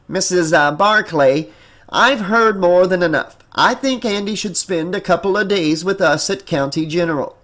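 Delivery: stern psychologist. Acted. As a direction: lay down a decision with authority. Psychologist addressing the mother.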